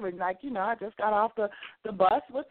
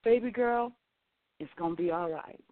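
gentle reassurance; 4 semitones lower than usual. Retold or imitated. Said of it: "she was like".

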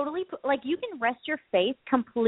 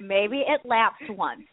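slow evasive excuse; 2 semitones lower, much slower than usual. Retold or imitated. Dragging evasive reply.

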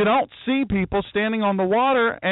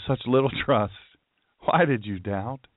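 amused rebuke; 8 semitones lower than usual. Acted. Jesus' rebuke, now laughing.

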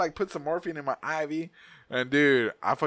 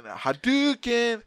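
drawn-out, raised video-game special-move call; game attack cry; 9 semitones higher, much slower than usual. Retold or imitated. Retelling the doctor's hands hitting his gut, game attack cry. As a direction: stretch it out like a fighting-game attack.

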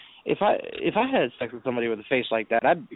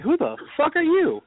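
retold incredulity; 13 semitones higher than usual. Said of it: "I looked at this bitch like".

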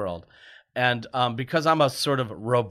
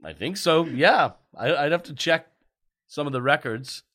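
lightly acted, unsure reassurance; fake Father Christmas; 2 semitones higher, 3 dB louder than usual. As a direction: imitate Santa hedging for a child. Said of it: "in your bad fake British accent".

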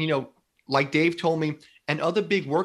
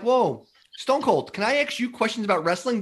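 starstruck fanboy; 5 semitones higher than usual. Retold or imitated. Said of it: "And you're like".

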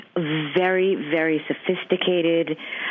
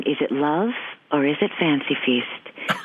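sophisticated commercial voice. Shown as a demonstration. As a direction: ease into the old Fancy Feast voiceover, a hint of Lauren Bacall elegance. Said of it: "if you've ever heard the line".

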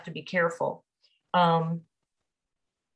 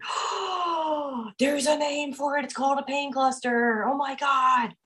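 retold surprise; 6 semitones higher than usual. Realising the pain cluster joke.

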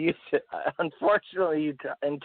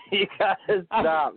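laughing; 4 semitones higher, slower than usual. Real, not acted. Laughing fit.

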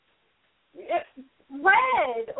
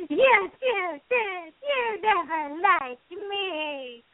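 drama queen Rarity voice; much slower than usual. Acted. Rarity quote from Diamond Dogs.

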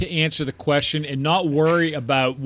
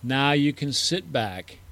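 debate rebuttal; 3 semitones lower than usual. Acted. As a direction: lull them like a calm orator. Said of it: "'cause you're stoned out of your mind".

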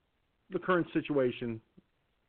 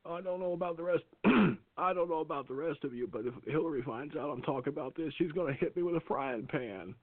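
Reagan impression; 4 dB quieter than usual. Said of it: "the greatest Reagan I've ever heard".

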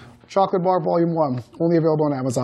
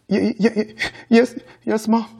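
stammered, higher-pitched answer; frightened stammer; 4 semitones higher than usual. A narrator's reading. Boy answering his angry mother, stammering. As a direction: stutter the first word, then force it out. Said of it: "he stammered".

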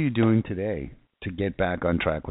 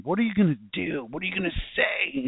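voicing God's question; 10 semitones higher than usual. God's question quoted, scared him.

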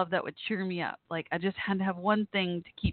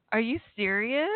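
rising, amazed question; can't believe what she just read; touched disbelief; 4 semitones higher than usual. Real, not acted. Host reads a message about an old friend, stunned and touched.

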